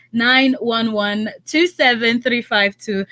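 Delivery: slow, spelled-out phone number; deliberate number reading; slow dictation. Real, not acted. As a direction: read each digit slowly for callers. Radio host slowly dictating phone number.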